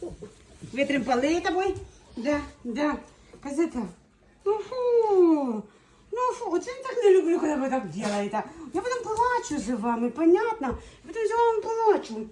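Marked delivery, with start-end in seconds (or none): 4.4-12.3 high, sing-song scolding of puppies; playful mock scolding. Real, not acted. (сюсюкання)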